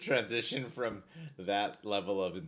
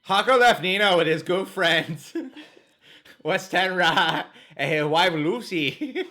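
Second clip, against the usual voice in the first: mock Jamaican accent, slow, loud; hammy Jamaican accent, laughing; 9 semitones higher, 12 dB louder, slower than usual. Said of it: "my Jamaican accent".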